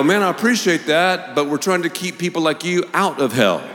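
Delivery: laughing through a teasing comeback; laughing reply. Retold or imitated. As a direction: rib him with a grin. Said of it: "I go".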